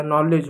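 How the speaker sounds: "नॉलेज" starting straight on the N; no K sound before "नॉलेज"; silent K. Shown as a demonstration. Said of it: "एन से ही उसका उच्चारण करेंगे". ("नॉलेज" में K silent, N से शुरू)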